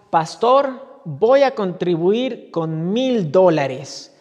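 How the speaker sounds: booming, slow pledge to the pastor; loud announcement. Retold or imitated. Rich man stands and announces his pledge to the pastor, loud and slow. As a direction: proclaim it loud and slow for all to hear. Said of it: "se paró y anunció".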